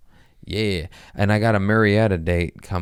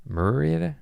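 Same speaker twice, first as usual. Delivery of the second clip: questioning Marietta; 8 semitones higher than usual. Shown as a demonstration.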